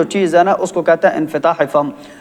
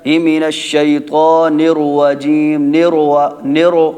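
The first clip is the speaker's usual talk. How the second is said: slow mock recitation with wrong joins; mock careless recitation; imitating common mistakes; much slower than usual. Shown as a demonstration. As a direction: show how people mangle it. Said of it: "اکثر لوگ کیا کرتے ہیں".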